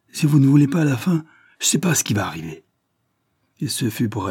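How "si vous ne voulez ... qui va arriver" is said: threatening. Acted. Peasant threatens the frightened painter.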